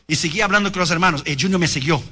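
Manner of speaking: ordinary delivery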